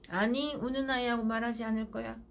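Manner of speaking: calm and firm, flat of feeling; firm, no emotion. Shown as a demonstration. Mother refusing to talk to crying child, calm and firm. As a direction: state it steadily, unmoved. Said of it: "단호해야 돼요".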